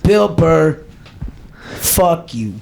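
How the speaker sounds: mock Boston accent. Comedian riffing on Boston names, put-on Boston accent. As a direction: toss out Boston catchphrases in the accent. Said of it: "how do you do a Boston accent".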